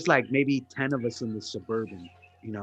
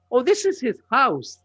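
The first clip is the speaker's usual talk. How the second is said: retold bluff; 10 semitones higher, 5 dB louder than usual.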